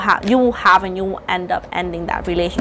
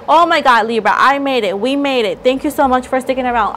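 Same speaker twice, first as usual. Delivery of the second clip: excited relief; 4 semitones higher than usual. Real, not acted. Relief finishing reading.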